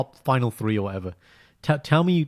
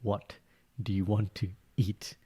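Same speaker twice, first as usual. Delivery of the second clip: soft slow ask; 3 semitones lower, 8 dB quieter, slower than usual. Retold or imitated. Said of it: "This is my opposite".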